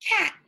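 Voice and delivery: cat said slowly and high, sound by sound; teacher modelling "Cat." for segmenting; drawn-out word demo. Shown as a demonstration. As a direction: stretch out "Cat." while sliding the arm down. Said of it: "Say it with me".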